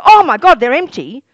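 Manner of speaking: high, loud oh my God; mock shock. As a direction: ham up a gasp at empty cups. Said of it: "you don't look at all the cups and go".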